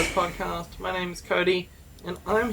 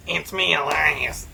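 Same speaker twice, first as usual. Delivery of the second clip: menacing Elias voice; 3 semitones lower than usual. Pretend. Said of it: "that is not Elias".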